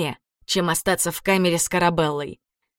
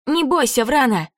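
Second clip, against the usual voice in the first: put-on reassuring ghost girl; 5 semitones higher than usual. A narrator's reading. Mara reassuring.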